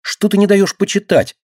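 high, indignant protest; a girl protests the interruption, indignant. A narrator's reading. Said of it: "возмутилась и мышка".

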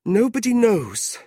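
high, drawn-out grieving voice; tearful widow. A narrator's reading. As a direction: lament slowly in a high widow's voice. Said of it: "her eyes filled with tears".

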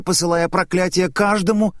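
plain reading voice

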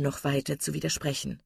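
ordinary delivery, nothing marked

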